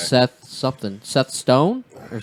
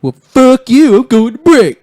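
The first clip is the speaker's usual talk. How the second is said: high shouted mock outrage; mock angry yell; 12 semitones higher, 13 dB louder than usual. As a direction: blow up in fake anger. Mock outburst at a friend.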